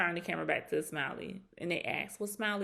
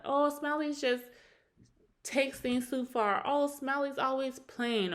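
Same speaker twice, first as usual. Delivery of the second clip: high, slow, sing-song imitation of the gossip crowd; lightly mocking drawn-out quote; 6 semitones higher than usual. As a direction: mimic the people talking down on Smiley. Mocking what others say about Smiley.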